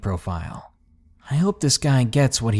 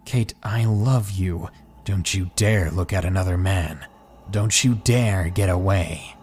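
controlled, menacing warning; angry; 3 semitones lower than usual. Acted. Possessive boyfriend warning his date not to get away, angry. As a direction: warn her off with restrained anger. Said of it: "speaking angrily".

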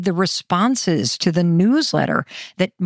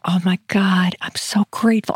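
mock grateful whisper; 2 semitones lower than usual. Acting out getting into bed.

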